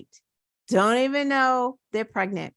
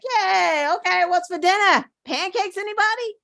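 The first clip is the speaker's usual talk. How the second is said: sing-song mock chirpiness, a bit higher and quick; mock cheerful; 5 semitones higher than usual. Vlogger mocking the idea that rape victims just move on, in a chirpy voice. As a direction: play the carefree victim as absurd, mockingly bright. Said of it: "and you're like".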